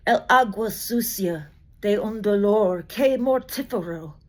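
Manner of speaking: careful Spanish recital of the original; poem in Spanish. Acted. Reading Vallejo's original to the audience, careful Spanish recital. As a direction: give the Spanish its lyric beauty, carefully. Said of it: "attempt it in my best Spanish possible".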